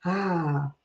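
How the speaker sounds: soft sigh of relief; relaxed sigh. Acted. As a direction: let out a quiet, contented ah. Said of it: "gives me a sense of".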